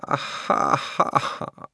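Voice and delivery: slow breathy unvoiced "ah, ha, ha, ha"; a hungry drawn-out laugh; long-drawn greedy laugh. A narrator's reading. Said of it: "gave a long-drawn".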